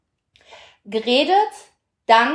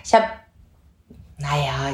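normal talking voice

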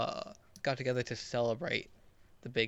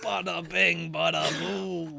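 put-on New York accent; 3 semitones higher, slower than usual. Joking New York talk.

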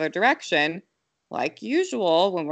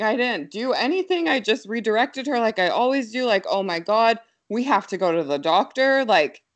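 higher, a touch of retold panic; panicked thoughts; 5 semitones higher than usual. Mother retelling her fear she hurt her child, mild panic. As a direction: replay the spiral of worry, half-laughing. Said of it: "all these thoughts start spiraling".

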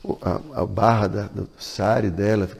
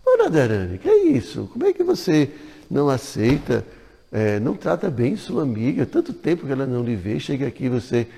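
higher scolding call that settles down; scolding mother-in-law; 4 semitones higher than usual. Acted. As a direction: scold Radharani like a stern in-law. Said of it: "Ela vai de Atila". (sogra repreendendo, começa bem aguda)

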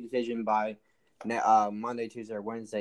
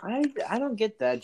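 baffled disbelief; 10 semitones higher, slower than usual. Real, not acted. Baffled by Butler's Miami move.

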